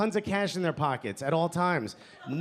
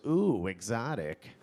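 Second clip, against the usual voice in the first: impressed audience lady; 6 semitones lower, 3 dB quieter, much slower than usual. Retold or imitated. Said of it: "some lady in the front row goes".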